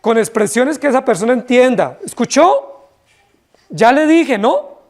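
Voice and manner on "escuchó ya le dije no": higher, firmer call to attention; stern scolding. Shown as a demonstration. Preacher showing how we scold someone, a firmer, raised voice. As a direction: snap it at someone who hasn't listened. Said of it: "Le decimos duro y fuerte".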